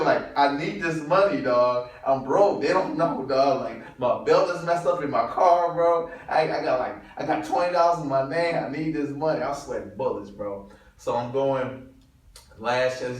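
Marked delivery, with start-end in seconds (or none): 0.4-9.4 desperate inner plea. Retold or imitated. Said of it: "I started thinking".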